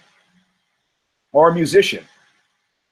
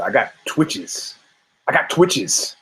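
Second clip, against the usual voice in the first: mock twitchy Herbert Lom; slower than usual. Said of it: "I'm like Herbert Lom".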